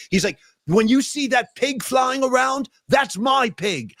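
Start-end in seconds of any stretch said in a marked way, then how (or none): 0.7-2.7 slow, higher, smug mock of a self-important star; mocking a pompous rocker. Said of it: "He sounded like such a freaking tool". 2.9-3.9 slow, possessive mock boast, higher; smug mock of the rock star. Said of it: "He sounded like such a freaking tool".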